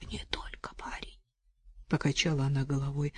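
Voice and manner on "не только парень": soft grim whisper. Acted. Вдова отвечает Арсению шёпотом. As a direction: whisper it, almost gone. Widow answers quietly.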